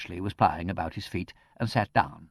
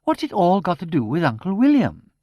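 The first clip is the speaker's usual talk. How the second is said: much higher, louder, anxious spinster; anxious gasping; 9 semitones higher, 8 dB louder than usual. A narrator's reading. Niece fearing for her uncle's affairs, anxious and high. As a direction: fret in growing dread about the money. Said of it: "gasped Miss Twitterton in an agony of apprehension".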